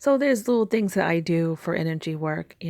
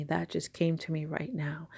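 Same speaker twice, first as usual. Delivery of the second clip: awed whisper; 5 dB quieter than usual. Real, not acted. Awed aside after prayer.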